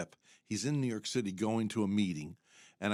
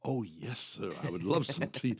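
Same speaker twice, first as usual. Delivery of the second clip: mock-refined British acceptance; mock British reply; 2 semitones lower than usual. Host accepting tea in Africa, mock British accent. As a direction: play along in a polite British accent. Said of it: "I go".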